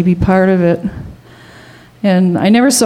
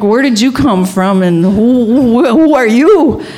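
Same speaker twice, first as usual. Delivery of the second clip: imitated bafflement, stammering and rising at the end; dumbfounded; 3 semitones higher than usual. Jack dumbfounded by the stranger, retold stammering disbelief. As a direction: act out stunned disbelief, stretching the last question. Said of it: "He's totally dumbfounded".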